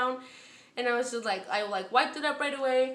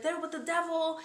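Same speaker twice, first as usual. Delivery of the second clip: retold scream; 5 semitones higher than usual. New inmate accusing others, retold as a mild scream. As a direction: imitate a frantic scream at ordinary volume. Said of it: "like, screaming".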